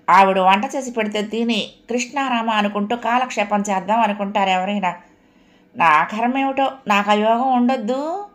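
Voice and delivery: lightly voiced self-pitying mother-in-law; a touch of aggrieved whining; complaining mother-in-law. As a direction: grumble about carrying all the housework.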